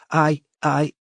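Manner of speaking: put-on high, faltering girl's voice; frightened stammer; stammering fear. A narrator's reading. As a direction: trip over the words in fear. Scared caller stammers.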